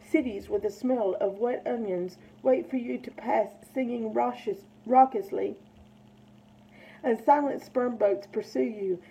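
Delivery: measured, earnest poetry recital; poem reading. Acted. Reads a Neruda poem aloud.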